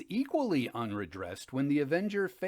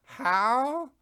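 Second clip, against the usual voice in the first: surprised shout; 11 semitones higher, 7 dB louder than usual. Acted. Fortunato surprised by Amontillado news.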